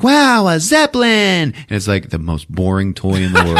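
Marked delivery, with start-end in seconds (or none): 0.0-1.5 high, slow fake delight; hammed-up kid excitement; sarcastic little-kid wonder; mock wow. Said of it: "And Randy's like".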